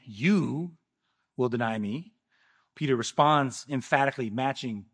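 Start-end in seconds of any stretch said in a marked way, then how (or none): 0.0-2.1 "You" drawn out and set apart, then "will deny me" quieter; emphatic prediction. Retold or imitated. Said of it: "Jesus emphatically told him".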